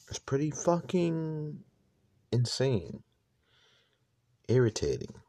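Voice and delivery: slow, dragged-out stoned drawl; spaced out and sluggish; stoner. Real, not acted. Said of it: "I'm fucking stoned right now".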